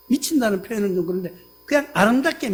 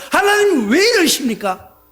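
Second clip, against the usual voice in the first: high, louder reproach to God; resentful cry; 5 semitones higher, 4 dB louder than usual. Retold or imitated. Resentful believer accuses God, crying out high. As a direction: throw the blame at God. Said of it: "이러면서 원망하느냐".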